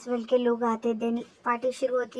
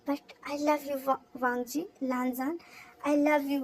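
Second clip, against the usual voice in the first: slow, soft, deliberate confession; a hushed slow I love you; speaking slowly; 4 dB quieter, slower than usual. Acted. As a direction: draw out each word gently, struggling to speak. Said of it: "slowly बोलता".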